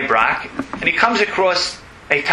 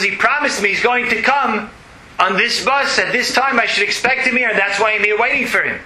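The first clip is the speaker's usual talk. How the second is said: a little higher, lightly voiced upset boy; voicing the crying boy; 6 semitones higher than usual. Rabbi voices the boy at the bus stop, higher and upset. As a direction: plead like a boy sure his father promised.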